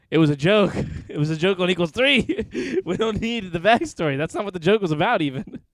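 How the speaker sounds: loud protest through laughter; laughing exasperation. Real, not acted. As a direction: protest while cracking up. Laughing protest at reading the backstory.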